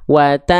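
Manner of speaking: "Wata" with a long hum, tongue hovering and not closing; concealed n before s. Shown as a demonstration. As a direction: hold a masked n at the end of "Wata". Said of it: "lidah kita bersiap-siap melafalkan huruf sin".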